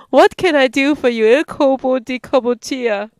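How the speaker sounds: loud, teasing officer voice; teasing lieutenant. Acted.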